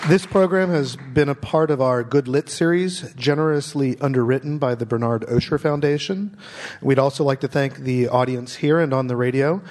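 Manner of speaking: measured announcer close; formal sign-off. Acted. Host closes the broadcast in a steady announcer read.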